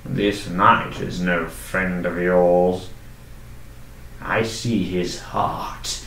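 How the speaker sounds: slow, low warning from the lord; a hint of a cold noble, drawn out; slow menacing lord. The lord warning the guest about her knight, slow.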